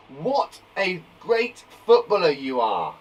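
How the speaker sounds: slow, emphatic admiring exclamation; surprised exclamation. Shown as a demonstration. Teacher exclaiming how good a footballer is, slow admiring exclamation. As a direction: exclaim it slowly, word by word. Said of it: "used when someone is surprised".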